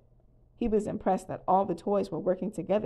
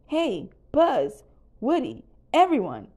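loud, higher-pitched call; yelling to friends; 6 semitones higher, 7 dB louder than usual. A narrator's reading. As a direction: call everyone over from a distance. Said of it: "Slinky Dog yelled from the edge".

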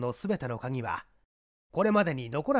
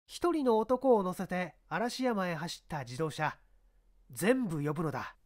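higher, firm police chief giving orders; commanding inspector; 4 semitones higher than usual. Acted. Inspector instructs his subordinate, firm and raised. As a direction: order the men about with authority.

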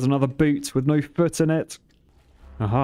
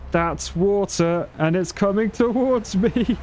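rising alarm as the water comes; 5 semitones higher, slower than usual. Real, not acted. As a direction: voice climbing in real fright. Water rushing toward player.

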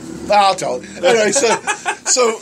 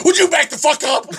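put-on drunk old man; 10 semitones higher than usual. Drunk man at ATM yelling.

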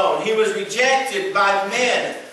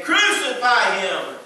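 crying out; 4 semitones higher, 3 dB louder, slower than usual. Retold or imitated. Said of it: "they cried out again".

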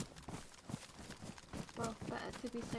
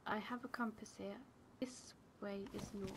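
hushed whisper to a teammate; 6 dB quieter than usual. Real, not acted. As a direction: keep it to a breathy whisper.

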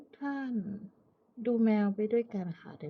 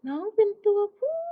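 excited squeal; 12 semitones higher, 9 dB louder than usual. Real, not acted. Surprised vet finding, high squeal.

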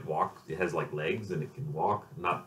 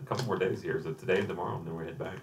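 talking with mouth full; words round a mouthful of food; cheeks stuffed full. Real, not acted. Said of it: "need to stop talking with my mouth full".

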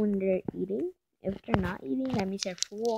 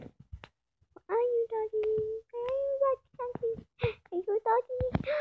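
calling the dog; 10 semitones higher, 4 dB quieter than usual. Real, not acted. Searching for the dog.

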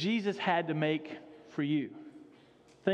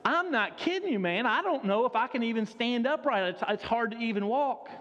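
whiny monk; 2 semitones higher than usual. Retold or imitated. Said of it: "He's like".

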